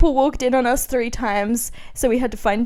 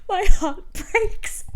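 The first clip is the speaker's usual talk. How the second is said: melodramatic diary reading, slowing at the end; milk the heartbreak for laughs; lightly mocking teen heartbreak; mock dramatic teen; 5 semitones higher than usual. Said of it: "it says".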